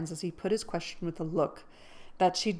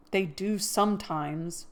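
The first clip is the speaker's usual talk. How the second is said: muffled; slower than usual. Acted. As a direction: speak with the face half hidden. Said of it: "said a muffled voice".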